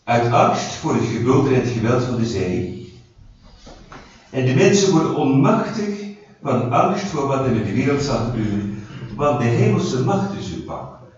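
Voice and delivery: verse proclaimed with firm stresses; emphatic scripture reading. Real, not acted. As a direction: read scripture out to the group, hitting key words. Reads Bible verse emphatically to group. (met nadruk voorgelezen Bijbelvers)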